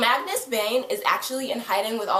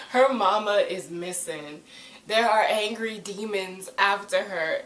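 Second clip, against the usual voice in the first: playful sassy scolding, lifted in pitch; hammed-up reality check for a clueless friend; mock sassy telling-off; 3 semitones higher than usual. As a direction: set him straight with mock attitude. Mock telling-off of a show character.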